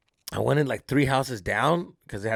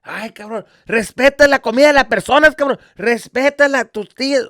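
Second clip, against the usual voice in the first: loud, high-pitched telling-off; hammed-up angry relative; acted scolding; 7 semitones higher, 8 dB louder than usual. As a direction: scold him like an outraged relative. Relative scolding him, retold.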